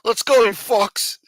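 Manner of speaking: loud, high, drawn-out aggressive yell. Acted. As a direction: yell it like a pushy, rowdy fan. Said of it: "Danny's very aggressive".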